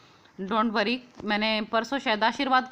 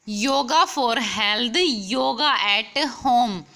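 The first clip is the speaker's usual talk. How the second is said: slow answer; 4 dB louder, much slower than usual. Shown as a demonstration. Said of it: "तो क्या होगा इसका answer?".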